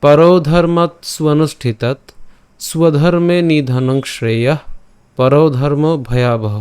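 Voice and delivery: slow, measured shloka reading with drawn-out long vowels; careful Sanskrit diction; Sanskrit verse recitation. Shown as a demonstration. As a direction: recite each quarter of the verse slowly and distinctly. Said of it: "শুদ্ধ সংস্কৃত উচ্চারণ নিয়ে আলোচনা করব".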